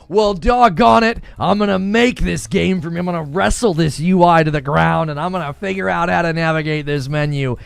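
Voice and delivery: a folksy player rolling up his sleeves; mock stubborn determination; defiant gamer voice.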